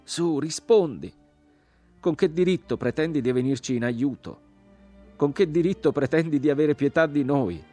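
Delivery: high, loud, angry challenge; loud demand. A narrator's reading. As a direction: demand an answer, indignant. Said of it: "la voce riprese più forte".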